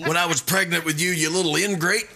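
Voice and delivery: high, hammed-up mom scolding her kid; guilt-tripping mom. Mom reminding her teenager what she went through, mock guilt trip. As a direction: lay the guilt on thick like a martyr mother. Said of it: "That's a mom thing".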